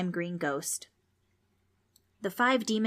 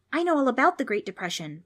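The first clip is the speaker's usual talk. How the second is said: put-on higher, louder know-it-all kid; higher-voiced boy showing off what he learned; eager schoolboy Preston; 6 semitones higher, 5 dB louder than usual. A narrator's reading. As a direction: pipe up proudly like a pupil in class.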